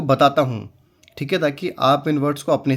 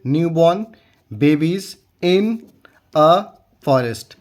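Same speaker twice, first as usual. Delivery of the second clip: slowly, word by word, a bit louder; slow model reading; 3 dB louder, much slower than usual. Shown as a demonstration. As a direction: read it out slowly for the learners. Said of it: "आप यहाँ से भी पढ़ सकते हैं".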